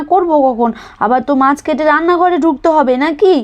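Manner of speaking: a hint of a put-upon daughter-in-law protesting; complaining daughter-in-law.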